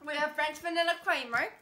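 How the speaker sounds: badly faked Italian-British accent; playful hybrid accent, mostly British; muddled put-on accent. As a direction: present it in a confused European accent. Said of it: "What is this accent?".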